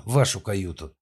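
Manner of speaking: tipsy, slurred babble; drunken babble. Acted. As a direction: let the words wobble drunkenly. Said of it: "пролепетала она".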